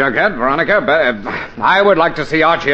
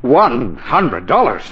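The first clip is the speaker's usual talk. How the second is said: slow, lower, awed repeat of the sum; amazed disbelief; 5 semitones lower, slower than usual. Acted. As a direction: let the number sink in, stunned.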